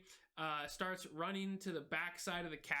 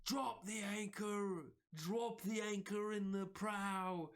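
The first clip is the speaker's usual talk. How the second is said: ordering call; 4 semitones higher, slower than usual. Acted. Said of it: "he's like".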